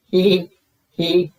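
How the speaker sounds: high, loud slow giggle; burst out laughing. A narrator's reading. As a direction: giggle with delight, drawn out. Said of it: "burst out laughing".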